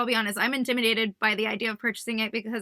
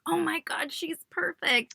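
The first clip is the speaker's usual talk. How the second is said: higher, stretched-out gush; gushing quote, drawn out at the end; retold admiration; 5 semitones higher, slower than usual. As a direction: re-enact being thrilled by someone. Retelling own admiring first reaction.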